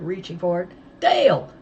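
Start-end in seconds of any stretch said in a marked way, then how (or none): 1.0-1.5 loud high urgent shout. A narrator's reading. Girl yells to her friend to catch the packet, loud shout. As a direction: call him across the room at full voice. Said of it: "I shouted".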